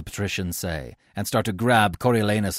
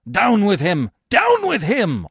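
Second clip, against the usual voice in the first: high, loud mob chant; crowd shout; 12 semitones higher, 7 dB louder, slower than usual. Acted. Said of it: "all the citizens shout".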